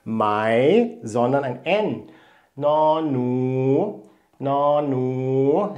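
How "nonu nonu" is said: "Nonu" with a rise at the end, said twice; teacher models "Nonu" for the learners; Thai word demo. Shown as a demonstration. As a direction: let "Nonu" climb at its end. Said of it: "die Maus".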